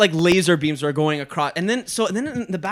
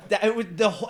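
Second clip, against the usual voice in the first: laughing; 4 semitones higher, 4 dB quieter, much faster than usual. Real, not acted. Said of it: "I'm doing this exact same laugh".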